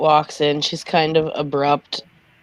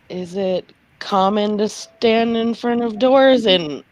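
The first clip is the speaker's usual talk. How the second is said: put-on light heavy Scottish accent; Scottish lilt, a touch higher; 4 semitones higher than usual. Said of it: "She's got a really heavy Scottish accent".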